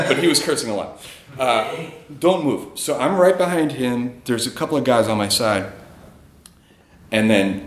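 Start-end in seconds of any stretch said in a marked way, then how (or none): 2.2-2.8 higher, attempted Scottish accent. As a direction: imitate a Scottish security man's short command. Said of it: "try to do a Scottish accent here".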